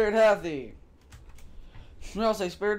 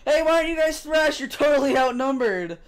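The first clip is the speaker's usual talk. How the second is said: excited; 5 semitones higher, 4 dB louder than usual. Acted. Character taunting loudly.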